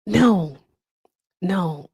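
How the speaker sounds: light impression, curt refusal; Donald Trump. Trump brushing off a question, lightly imitated. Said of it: "That is my Trump impression".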